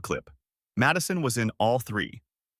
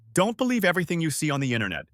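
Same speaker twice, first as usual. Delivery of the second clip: hissing; 5 semitones higher, faster than usual. Acted. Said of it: "she hissed".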